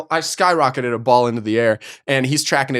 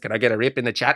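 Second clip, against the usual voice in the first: mock kid voice; 6 semitones lower, 6 dB quieter, faster than usual. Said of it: "Jose, just".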